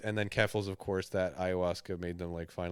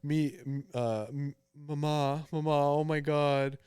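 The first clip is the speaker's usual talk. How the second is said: high, loud mock-panicked teen voice; hammed-up fake panic, voice raised high; mocking troll; 5 semitones higher, 5 dB louder than usual. Mocking the troll's fake panic to his audience, hammed-up and high. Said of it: "the troll is playing, like".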